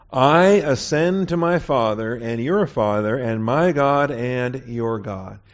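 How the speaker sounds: slow, weighty reading of the message; preacher slowly voicing Jesus's message to the brethren; solemn slow reading. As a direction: draw each phrase out solemnly.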